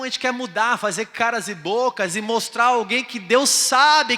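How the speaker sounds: loud, high sermon cry; preaching. Acted. Pastor preaching to the church, loud and high. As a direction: preach it hard to the crowd.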